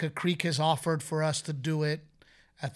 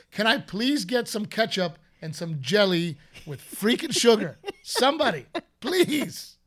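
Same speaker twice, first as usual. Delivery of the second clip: mock yelling; 3 semitones higher, 3 dB louder than usual. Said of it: "yelling in the house".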